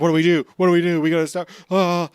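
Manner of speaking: mock panic. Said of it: "they're like".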